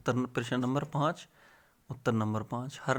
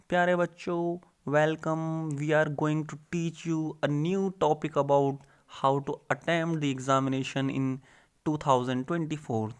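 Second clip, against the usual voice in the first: higher, very slow, put-on English teacher voice; mock posh teacher; 3 semitones higher, much slower than usual. A tutor mocking a prim teacher's greeting, higher and very slow. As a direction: parody a prim teacher greeting his class, drawn out.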